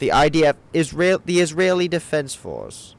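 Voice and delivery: high-pitched, incredulous reaction; startled disbelief. Acted. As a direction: react in alarmed surprise, voice pitched right up. Startled suspect reacts to agents.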